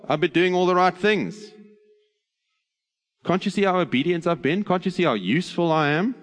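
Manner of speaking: indignant elder brother begging to be noticed; sulky older son. Acted. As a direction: whine at your father that you deserve the reward. In this kind of tantrum.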